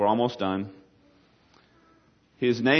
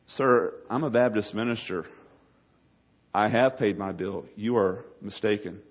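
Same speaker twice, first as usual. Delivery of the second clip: lower, deliberate acted correction; Baptist minister's reply; 3 semitones lower than usual. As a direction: answer the waiter firmly, with pauses. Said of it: "So the Baptist minister says".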